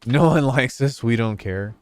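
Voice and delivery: high, loud mock pet voice; dog talking, high and loud; voicing the dog. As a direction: speak for the dog in a squeaky bratty voice. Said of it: "She's like".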